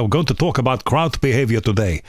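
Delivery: a lightly put-on, deliberately bad Dutch accent; Hans Schady, poor Dutch accent. Politics lecturer opening his class on crowds, in a mild, poor Dutch accent. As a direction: impersonate an old Dutch lecturer with a shaky, half-hearted Dutch accent. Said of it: "that's a very poor Dutch accent".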